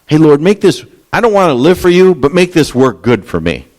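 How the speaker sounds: high, pleading whine at God, hammed up; mock selfish prayer. Preacher mocking a selfish prayer, high whiny begging. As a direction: beg the Lord like a spoiled kid, mockingly. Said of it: "That's not the verse".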